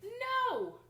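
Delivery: high, loud emphatic no; dramatic no. A narrator's reading. Teacher revealing the verdict to listeners, emphatic. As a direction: deny it with a big flourish.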